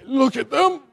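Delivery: high, choked-up imitation; mock tearful professor. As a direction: squeak it out as if about to cry. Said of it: "turns around to being a tearjerker".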